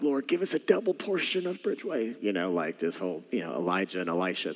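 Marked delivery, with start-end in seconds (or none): 0.0-2.2 raised, pleading prayer to the Lord; imitating his own earnest prayer; fervent prayer. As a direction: cry out to God for a double portion. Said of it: "And I'm like".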